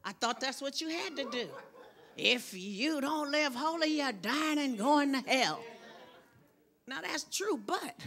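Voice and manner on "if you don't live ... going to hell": mock scolding from the pulpit; fussing preacher. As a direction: mimic a fussing preacher, dragging the words. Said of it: "I used to fuss when I get up here".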